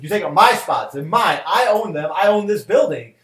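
mock the landlord's possessive snap; angry landlord. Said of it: "He's like".

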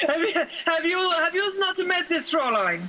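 mock-German ominous warning; lightly put-on German accent, deliberate. German warning a man about this Fräulein, mock German accent. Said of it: "starting to sound like a fucking Russian somehow".

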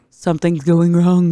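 slow, drawn-out mock warning; Spidey sense. Retelling Peter's Spidey sense, slow mock warning. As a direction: stretch it out as a sensed danger. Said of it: "Spidey sense, he's like".

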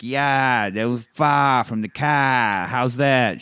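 put-on Boston accent with dropped R's; imitated Boston accent. Husband showing his wife New England talk, mock Boston accent. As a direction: say "far" and "car" Boston-style, drawn out. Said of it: "he sounded like he's from Boston".

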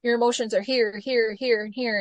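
ordinary talk, nothing marked

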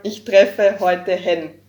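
Hen set apart, slow and loud; stress on the new pronoun. Shown as a demonstration. Teaching a listener the new pronoun, slow stressed delivery. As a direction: slowly lean into "Hen" as the new word. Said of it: "instead of Jona".

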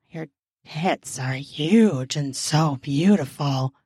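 low mumbled character line; mumbling man. Acted. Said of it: "Ben mumbles".

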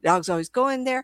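high retold grumble; exasperated dog owner. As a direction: imitate an owner complaining about the dog. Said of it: "But this girl".

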